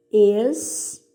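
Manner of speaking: "Extrair" split into ex, tra, ir with long gaps; separando sílabas. Shown as a demonstration. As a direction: dictate "Extrair" in drawn-out syllables. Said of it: "separe as sílabas dessas palavras". ("Extrair" sílaba por sílaba, bem separado)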